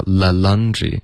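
THE in THE LAUNDRY said as 了; mimicked l. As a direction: imitate the slip, an l for th in THE. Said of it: "不要". (“the”错读成“了”)

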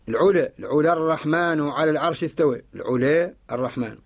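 العلا ending leaned toward e; imala. Shown as a demonstration. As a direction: tilt the final alif of العلا toward "e". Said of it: "وفيها الإمالة".

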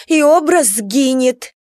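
образ pressed slow and weighty; stress on образ. Acted. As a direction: lean hard on образ. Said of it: "произнесла с нажимом".

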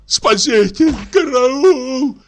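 high, loud terrified yell; shrieking караул; screaming for help. Acted. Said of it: "закричал он".

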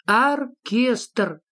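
МОРСКОЙ, pause, ОРКЕСТР, each stretched out slowly; spelling-check reading of «Морской... оркестр», drawn out. A narrator's reading. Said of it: "прочёл Фредриксон".

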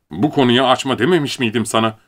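high, firm reproach; scolding. Acted. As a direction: snap at him for bringing it up. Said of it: "George azarladı".

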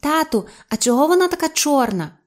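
high-pitched parroting creature; саламандра повторює почуте. A narrator's reading. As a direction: mimic a visitor's question in a high voice. Саламандра повторює слова відвідувачів. (високий голос саламандри)

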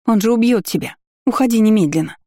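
high, frantic plea to run; frightened shouting. A narrator's reading. She begs him to flee.

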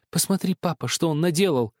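high, complaining with tears in the voice; tearful complaint. A narrator's reading. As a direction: whine to father near tears. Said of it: "жаловалась она со слезами в голосе". (жалоба со слезами в голосе)

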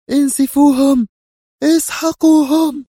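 high, loud battle cry; shouted order. A narrator's reading. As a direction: roar the order to attack. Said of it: "وصرخ الجنرال". (صيحة أمر عالية وحادة)

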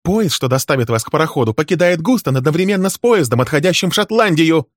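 high, loud, raging accusations; furious tirade. Acted. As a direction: unload years of grievance at him. Wife's furious tirade continues.

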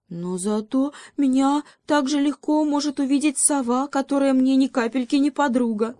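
high, squeaky mouse voice; high-pitched mousy objection; little mouse. A narrator's reading. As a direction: protest in a high, small-creature voice.

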